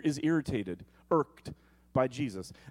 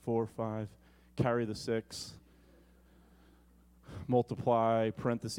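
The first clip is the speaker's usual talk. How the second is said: mock counting; 6 semitones lower, 5 dB quieter than usual. Peter mock-calculating forgiveness count.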